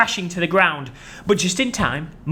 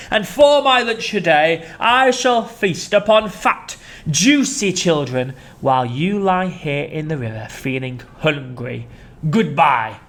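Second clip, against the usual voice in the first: gloating crocodile; slower than usual. Acted. Crocodile gloating about his lunch. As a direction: savour each word.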